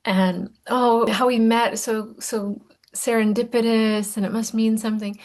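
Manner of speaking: mock swooning, slow and dreamy; lightly hammed-up lovestruck gushing; dreamy infatuated mind. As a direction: gush like a lovestruck romantic. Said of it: "your mind is like".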